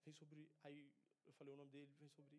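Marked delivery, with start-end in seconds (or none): 0.1-0.5 hushed, softer repeated invocation; soft, earnest calling on the Spirit; quiet prayer. Retold or imitated. Praying over the screaming boy. 2.0-2.4 hushed, softer repeated invocation; soft, earnest calling on the Spirit; quiet prayer. Retold or imitated. Praying over the screaming boy.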